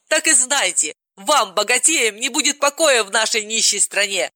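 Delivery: high, bitter warning; angry threat. Acted. Polina warns the rich in a rage. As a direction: threaten them with venom.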